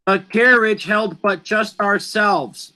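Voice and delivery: "A carriage held but just ourselves" with even beats; line read to count syllables. Shown as a demonstration. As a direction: lay out each syllable of the line. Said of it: "That's eight syllables".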